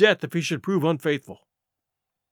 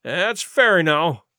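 put-on slow old sailor; drawn out, grudging; old man Morgan; much slower than usual. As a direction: Morgan agreeing slowly. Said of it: "said the old man Morgan".

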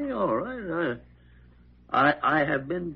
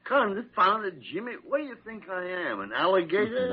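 indignant outburst; 7 semitones higher than usual. Acted. Old doctor to Jimmy during his checkup, indignant outburst. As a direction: bristle at being poked like a patient.

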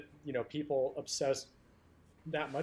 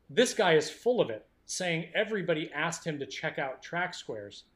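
condescending voice; 2 semitones higher, 4 dB louder than usual. Acted. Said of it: "somewhat condescending voice".

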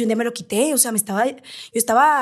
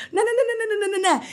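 laughing refusal; 8 semitones higher than usual. Retold or imitated. Se niega entre risas.

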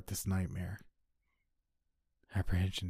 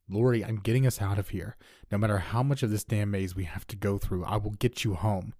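insistent; 4 dB louder than usual. Acted. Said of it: "I insisted".

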